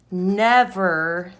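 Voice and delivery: "never" set apart and drawn out for weight; "never" in all capitals, slowly stressed; emphasis on NEVER. Shown as a demonstration. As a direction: lean firmly on "never" as if in capitals. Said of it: "I want extra emphasis".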